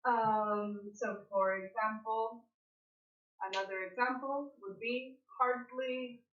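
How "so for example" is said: ordinary talk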